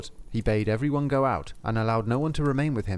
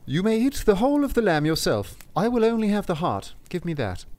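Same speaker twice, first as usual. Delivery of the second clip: a lightly higher, louder apostle asking; Saint Peter; 8 semitones higher, 3 dB louder than usual. Acted. Apostle to Lustig, a touch raised and eager. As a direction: voice the saint making his claim.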